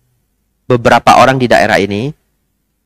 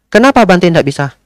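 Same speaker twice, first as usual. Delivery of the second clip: high pushy why from the lady; pressing lady; 7 semitones higher than usual. Retold or imitated. Pushy lady presses the monk with a high why.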